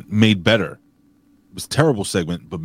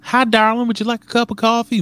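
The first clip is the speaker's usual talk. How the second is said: high, mock-posh English accent; English host offering coffee, in a high English accent. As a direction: put on a prim English lady voice asking about coffee. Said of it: "I don't know why I went English there".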